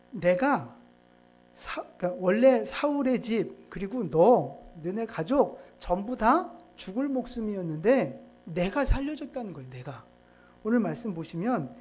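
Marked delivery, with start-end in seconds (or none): 0.1-10.0 louder, bragging retold outburst; half-acted fiery boasting; mock angry boast. Preacher voicing a general boasting angrily at the king, louder. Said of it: "불같이 막 화를 내는 거예요".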